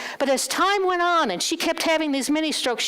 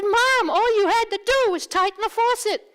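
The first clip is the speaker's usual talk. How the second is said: exasperated; 10 semitones higher, 4 dB louder than usual. Retold or imitated. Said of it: "I said".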